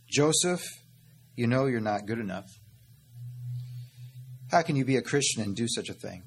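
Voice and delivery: accusing inner voice. Acted. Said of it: "he whispers in your ear".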